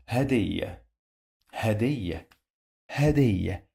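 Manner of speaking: Hadiyya, each repeat set apart by a pause; model pronunciation. Shown as a demonstration. Teacher modelling an Arabic word for learners, model pronunciation. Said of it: "how we pronounce it in Arabic".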